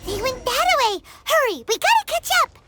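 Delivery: calling out to hurry after them; urgent shout to follow the trail. Acted. Chasing the newcomers' footprints.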